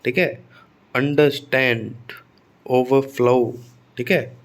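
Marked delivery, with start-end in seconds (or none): 1.0-3.6 अंडरस्टैंड and ओवरफ्लो with STAND and FLOW stressed; second-word stress. Shown as a demonstration. Teacher recapping verb stress, weight on the second parts. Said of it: "दूसरे word के पहले syllable पर stress आएगा".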